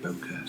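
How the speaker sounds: bokeh as BOH-kuh; bokeh pronunciation variant. Shown as a demonstration. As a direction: end bokeh on a short "kuh". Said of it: "how it's actually pronounced".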